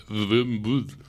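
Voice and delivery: drawn-out mock German accent; German-accented word, stretched out for show; put-on German accent. Shown as a demonstration. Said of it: "I'm doing an accent again".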